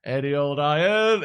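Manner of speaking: slow, stretched sing-song call; drawn-out sing-song street cry. Retold or imitated. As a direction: call it out like a scrap man. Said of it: "come round the streets of Worksop going".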